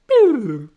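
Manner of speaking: loud, high, falling "boo" noise; rewind sound effect. Pretend. Host mimics time rewinding, loud falling sound effect. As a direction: make a loud rewinding whoop.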